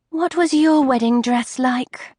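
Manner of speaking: a light touch of wistful longing; wistfully. Acted. Bride asking the dressmaker about her dress, wistful. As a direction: ask it dreamily, a little longing. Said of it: "said Bethany wistfully".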